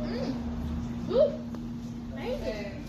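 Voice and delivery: talking while chewing; eating between words; mouth full of fries. Real, not acted. Seen 0: Boy repeatedly brings fries to his mouth while talking.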